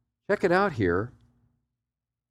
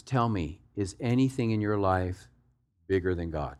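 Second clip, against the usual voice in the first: put-on quiet, lower-pitched touch of London accent; 5 semitones lower, 4 dB quieter than usual. Preacher answers a question on praying, London accent. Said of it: "in his little London accent".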